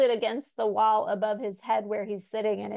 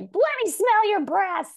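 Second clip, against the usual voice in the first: put-on evil drunk mom; 12 semitones higher, 6 dB louder than usual. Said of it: "She's like".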